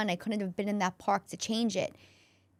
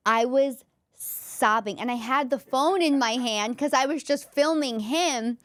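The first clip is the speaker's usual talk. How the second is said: voice breaking with emotion; 6 semitones higher, 6 dB louder than usual. Real, not acted. Tearful peak of graduation story.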